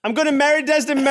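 high, rushed, breaking into laughter; laughing announcement. Acted. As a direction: blurt it out through giggles. Suitor announces choice, bursting with laughter.

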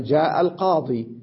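جاء القاضي ending "qaadii"; al-qaadii with final yaa pronounced; stop on yaa. Shown as a demonstration. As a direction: close القاضي on a long ii. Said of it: "يقفون عليها بالياء".

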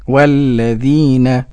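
"والذين" loud, low and very slow; careful model repetition. Shown as a demonstration. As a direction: repeat "والذين" firmly, stretching the long vowel. Host repeats the modelled word. ("والذين" بصوت منخفض الطبقة وممدود)

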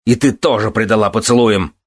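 accusing cry. A narrator's reading. Son accusing the lady of betrayal, crying out. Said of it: "закричал он".

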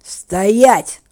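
loud growled order to halt; sharp, very loud bellow; roared command. A narrator's reading. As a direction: roar it as a command. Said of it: "рыкнул брюнет".

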